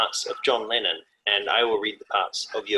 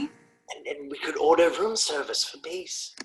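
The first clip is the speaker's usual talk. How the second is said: eager pitching; 3 semitones higher, 5 dB quieter, slower than usual. Acted. Acting eager idea to partner.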